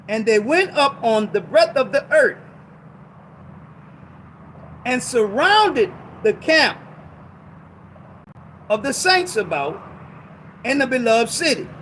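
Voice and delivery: slow, deliberate scripture reading, spaced out. Shown as a demonstration. Preacher rereading the verse slowly to the congregation, slow and deliberate. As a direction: read it slow so they catch every word. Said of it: "I'm gonna read it slow".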